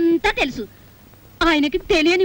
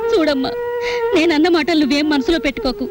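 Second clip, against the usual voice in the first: pleading through tears; tearful pleading. Acted. Wife begging the niece to send her husband home, tearful.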